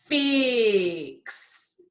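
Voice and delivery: FIX stretched out, vowel held long; said slowly. Shown as a demonstration. Teacher reminding pupils of the routine, FIX said slowly. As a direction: draw FIX out so every sound shows. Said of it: "we're going to say it slowly".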